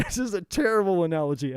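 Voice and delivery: laughing through the words at his own joke; real laugh breaking into the line. Real, not acted.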